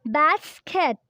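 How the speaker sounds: Basket split into bas and ket; syllable by syllable. Shown as a demonstration. Teacher counts syllables with learners, Basket in two beats. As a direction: pause in the middle of Basket. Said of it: "let's count some syllable with me".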